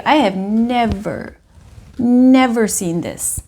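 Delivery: slow, drawn-out never; stunned emphasis. Real, not acted. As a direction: stress both nevers, slowly. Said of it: "I myself am stunned".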